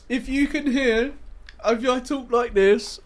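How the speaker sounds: high, slow mocking imitation; mimicking the roommate. Mocking the woman in the gaming mask video, high and slow. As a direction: parrot her back in a high, slow mock voice. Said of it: "she's going".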